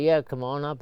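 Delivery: lightly imitating a singer's British accent. Guest imitates a famous singer answering the bell, light British accent. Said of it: "That sounded like a British accent".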